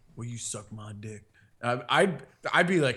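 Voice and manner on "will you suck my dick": very quiet, distinctive, soft murmuring voice. Imitating how a politician would talk: Bill Clinton's voice. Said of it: "his distinct voice".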